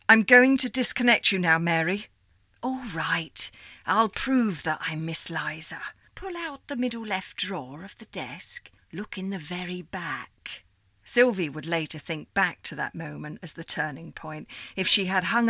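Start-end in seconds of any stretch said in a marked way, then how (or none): 0.1-2.1 much louder, higher, building to fury; angry threat. Acted. Sylvie angrily threatens caller. 2.6-10.6 put-on old operator lady. Miss Liza continues.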